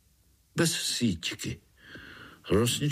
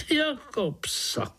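higher, slow and dramatic; dramatic cry; slower than usual. Acted. Tree frog exclaims dramatically about being thrown out, dramatic. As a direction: wail it like a great tragedy. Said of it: "zvolala Rosnička dramaticky".

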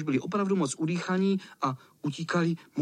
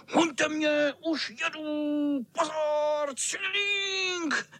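put-on teasing old tomcat; 12 semitones higher, much slower than usual. Cat taunting on tricycle.

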